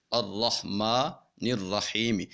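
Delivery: الرحمن الرحیم recited slowly, the ی of الرحیم stretched one alif; drawn-out recitation of الرحمن الرحیم; slow Quranic recitation. Shown as a demonstration. Quran tutor recites الرحمن الرحیم for students, slow and measured. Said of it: "ہم اس کو کیسے پڑھیں گے؟".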